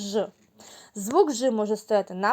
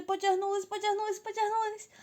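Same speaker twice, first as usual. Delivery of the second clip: rising higher with each stretch; 10 semitones higher, 6 dB quieter, faster than usual. Shown as a demonstration. Teacher stretches with kids, voice climbing higher. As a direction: climb up in pitch as you stretch.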